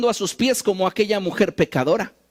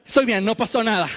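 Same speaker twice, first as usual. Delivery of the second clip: embarrassed brush-off. Pretend. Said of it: "por la vergüenza nos paramos y decimos".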